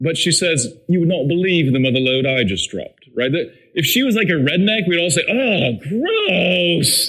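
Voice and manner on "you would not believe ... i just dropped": put-on mimicked proper English accent. Quoting a woman in a video she showed her kids, in a proper English accent. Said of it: "proper English accent".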